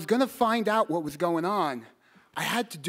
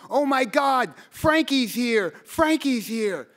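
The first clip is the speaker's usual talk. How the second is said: high, loud panicked cry, drawn out slowly; panicked scream; 6 semitones higher, 4 dB louder, slower than usual. Retold or imitated. Woman at the window spotting the boy, panicked high cry. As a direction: imitate a woman caught out, panicking. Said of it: "and she screamed".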